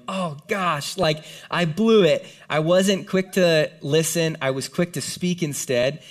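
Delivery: drawn-out, rueful self-reproach; imagined regret. Pretend. Paul realising his mistake, ruefully stretching the words. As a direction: own up slowly, with mild dismay. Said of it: "I'm just imagining that moment going".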